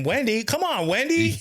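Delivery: high, half-laughing protest at Wendy; exasperated call-out. Real, not acted. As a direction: call her out, playfully outraged. Mock complaint to absent friend.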